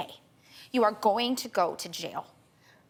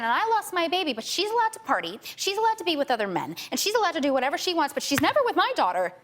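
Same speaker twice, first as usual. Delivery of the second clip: rising indignation; 4 semitones higher than usual. Real, not acted. Mother to Doctor Phil about the adoptive mother, growing indignant. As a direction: pitch climbing, hitting each allowed hard.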